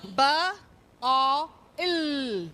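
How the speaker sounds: "B", pause, "o", long "il"; sounded out. Shown as a demonstration. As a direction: count out the sounds "B, o, il". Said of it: "how many phonemes are there".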